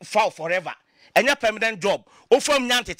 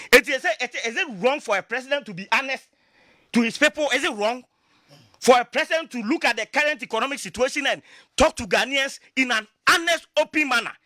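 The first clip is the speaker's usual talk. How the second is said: impassioned rhetorical questions; 3 semitones higher than usual. Real, not acted.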